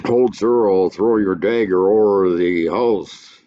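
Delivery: loud commanding hold; stage shout. Acted. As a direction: stop the brawl with a shout. Stage fight read aloud.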